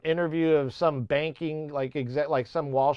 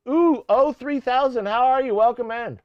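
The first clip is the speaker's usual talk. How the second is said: a higher, mock South African accent that misses; failed South African accent; 7 semitones higher, 3 dB louder than usual. Streamer welcomes a viewer in a failed South African accent. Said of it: "Still not South African".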